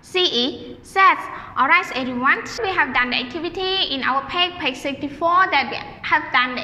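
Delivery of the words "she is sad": slow, spaced model with she is sad; slow teacher demo of she is sad; slow model sentence. Shown as a demonstration. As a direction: say it slowly so the class can echo. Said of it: "Repeat after teacher".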